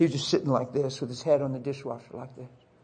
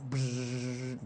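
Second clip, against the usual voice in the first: imitated door buzzer; buzzer noise; 3 semitones lower, 7 dB quieter than usual. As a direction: buzz like an electric door release.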